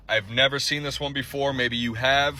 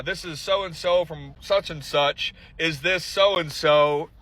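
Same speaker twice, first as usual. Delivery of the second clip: mock professional caller; slower than usual. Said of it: "ask me the professional questions".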